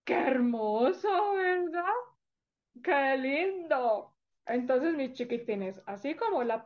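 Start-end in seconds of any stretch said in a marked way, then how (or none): 0.0-4.1 slow, tender, near-tearful; touched. Real, not acted. After the story, telling children, slow and tenderly moved. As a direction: savour it as if moved.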